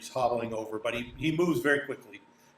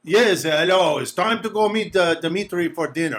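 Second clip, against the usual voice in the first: higher, louder character voice; guide's hearty greeting; 6 semitones higher, 6 dB louder than usual. Acted. Guide fetching guests for dinner, hearty greeting. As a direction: announce dinner to the guests at the door.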